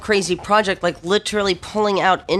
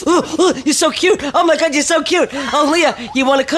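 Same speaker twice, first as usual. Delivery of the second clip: put-on high, louder cooing over a cute girl; gushing Greek wife; 9 semitones higher, 3 dB louder than usual. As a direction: coo and gush like she's pinching cheeks. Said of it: "Kept grabbing me, going".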